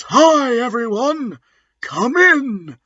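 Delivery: pitched well up, breezy hello; chirpy high welcome to the class; high greeting voice. Acted. A girl greets the students, high and chirpy.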